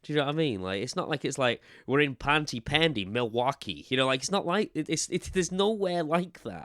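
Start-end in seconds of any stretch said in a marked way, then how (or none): 1.9-3.9 mock American accent, slightly raised. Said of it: "gave all the characters American accents".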